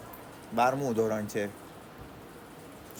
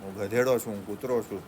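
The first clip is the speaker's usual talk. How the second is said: hint of a humble prayer, softer; 2 semitones lower, 4 dB quieter than usual. Student humbly praying to God for strength, soft and humble. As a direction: pray humbly like a beggar. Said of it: "રોજ ભગવાનને કહેવાનું".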